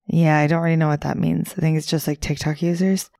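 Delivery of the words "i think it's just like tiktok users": a touch of American twang; American accent. Real, not acted. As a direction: slip lightly into an American accent. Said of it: "It just sounded really American there".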